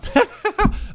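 high, sudden laugh; burst of laughter. Real, not acted. Laughs at own order.

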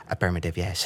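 stiff, pompous formal speaker; overly formal. Retold or imitated. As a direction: say it like a walking thesaurus. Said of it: "he cannot say something simply".

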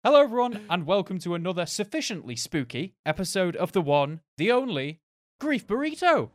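high, loud hammy horror host; spooky host voice. Acted. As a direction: ham up the spooky welcome. Hammy spooky show intro.

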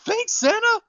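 high squeaky little voice, overjoyed; squeaky Hornswoggle voice. Retold or imitated. A thrilled leprechaun thanking Santa, high squeaky voice. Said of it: "he's like".

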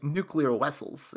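slow, mock Russian accent with V turned to W; Chekhov's Russian accent. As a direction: imitate a hammy Star Trek Russian accent. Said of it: "like fucking Chekhov from Star Trek accent".

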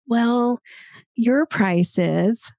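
drawn-out, slow hedge before the figure; hesitant qualifier. Shown as a demonstration. Coach mimicking how a price gets qualified, hesitant. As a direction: stretch it out like you're hedging. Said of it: "a qualifier might be like".

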